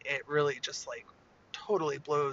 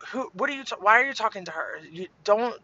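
higher, hurried mock-mom scolding; snapping; 5 semitones higher, 3 dB louder, faster than usual. Mom thinks Lily is yelling at her sister, mild snap. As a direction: re-enact a mother cutting in to tell off her kid. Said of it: "I snapped at you".

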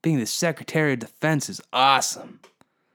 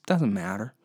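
ordinary talk

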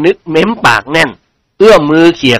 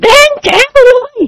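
deliberately loud; 3 dB louder than usual. A narrator's reading. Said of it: "แกล้งพูดขึ้นดังๆ". (แกล้งพูดเสียงดัง ลากเสียง)

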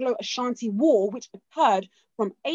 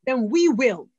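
put-on loud, slow Ghanaian-accented war cry; rally the women in a Ghanaian accent, slow and loud; Ghanaian accent with emphasis; 4 dB louder than usual. Ya Asantewaa calling the women to fight, in a loud slow Ghanaian accent. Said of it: "I'm gonna say it with accent and emphasis".

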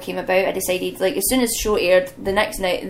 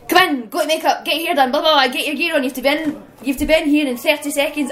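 higher, louder rushed crew instructions; hurried crew orders; 6 semitones higher, 3 dB louder than usual. Retold or imitated. Live TV crew hurrying her along, higher and louder. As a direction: bark out the rushed backstage orders.

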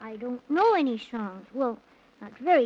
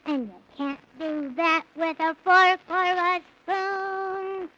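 put-on earnest child recitation; boy recites his only song; poem recital; slower than usual. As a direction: recite the verse with care. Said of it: "I only know one song".

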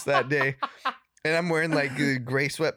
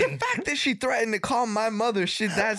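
laughing; 10 semitones higher than usual. Real, not acted. Defending kicking babysitter, laughing.

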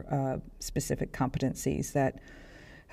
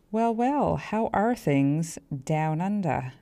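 playful faked Australian accent; mock Australian accent; 2 semitones higher, slower than usual. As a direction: tease the Australian listeners in a put-on Australian accent. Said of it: "I don't have a good Australian, um, accent".

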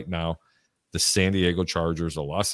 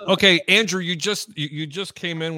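high, bright welcome; host's high excited welcome; excited greeting; 8 semitones higher, 4 dB louder than usual. Real, not acted. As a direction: pump up the guest. Host excitedly greets guest.

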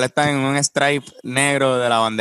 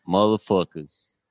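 Boston accent; 4 semitones lower, slower than usual. Shown as a demonstration. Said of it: "se me va un poco pa' Boston el acento".

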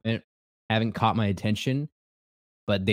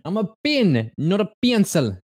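excited; 9 semitones higher, 4 dB louder than usual. Real, not acted. Declaring quiz result.

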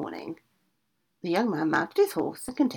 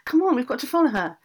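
higher, louder alarmed cry; witch crying out; 7 semitones higher, 7 dB louder than usual. A narrator's reading. Witch waking the ogre, crying out loud and high. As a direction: rouse the ogre in a panic. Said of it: "cried out".

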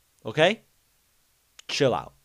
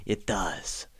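breathless yes dropping into a low mumble; mock breathless answer; 3 semitones lower, 8 dB louder, much slower than usual. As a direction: imitate him, half laughing and breathless. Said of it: "And he's like".

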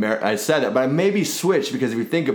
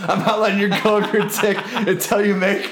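high mock female dog voice; 8 semitones higher than usual.

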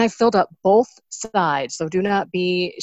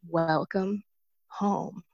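soft, gentle welcome with a pause between words; beautiful tender voice; 5 dB quieter, much slower than usual. Retold or imitated. Priest to returning penitent in confession, beautiful tender voice. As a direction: welcome them tenderly, unhurried and quiet. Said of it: "says it in the most beautiful voice".

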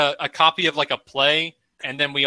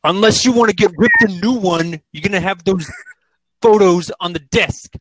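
stern scolding; 3 semitones higher, 5 dB louder than usual. Acted. Joins improv scolding the employee.

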